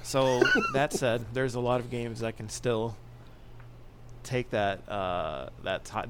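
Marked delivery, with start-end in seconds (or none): 0.0-1.2 slow, laughing through it. Real, not acted. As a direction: chuckle while saying it. Laughs while moving on.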